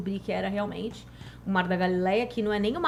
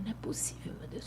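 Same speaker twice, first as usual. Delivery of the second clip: breathy whisper of disbelief; stunned whisper; 16 dB quieter, faster than usual. Retold or imitated. Woman retells whispering in shock at Jesus's words. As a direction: whisper it, overwhelmed.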